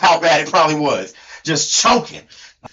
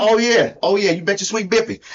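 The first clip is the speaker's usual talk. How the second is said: put-on country accent; storyteller with a mock country twang; Hee Haw Tony. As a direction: imitate your co-host's hillbilly accent. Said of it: "has to sound like me".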